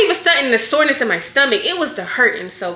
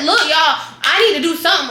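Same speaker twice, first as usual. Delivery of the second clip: higher, louder laughing plea; mock insisting; 6 semitones higher, 4 dB louder than usual. Patient pleading with the nurses, higher louder laughing plea.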